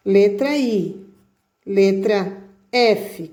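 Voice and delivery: letters named slowly and clearly; slow naming. Shown as a demonstration. Teacher slowly naming letters for the class. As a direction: spell it out slow for the kids. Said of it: "esse aqui é a letra I".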